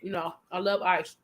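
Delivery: talking while crunching ice. Real, not acted. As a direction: chew ice between words. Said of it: "Sorry for the crunching".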